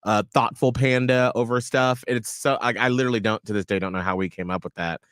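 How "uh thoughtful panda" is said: drawn-out slow panda labels; slow playful catchphrase. Retold or imitated. Friends' old inside joke, slow playful labels. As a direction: stretch each phrase slowly. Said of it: "we would just say".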